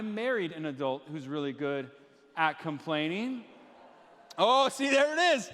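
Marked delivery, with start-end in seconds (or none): 4.4-5.5 higher and louder, crowing at the crowd; loud gotcha to the booing crowd; excited call-out. Real, not acted. Pastor calls out booing crowd, loud and gleeful. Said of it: "you guys boo".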